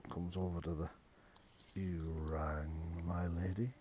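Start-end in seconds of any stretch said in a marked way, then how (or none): 1.8-3.7 put-on low, soft, drawn-out old servant; hushed, deep old retainer's voice; old manservant. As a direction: answer as a shuffling old butler. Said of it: "the old man shuffles back".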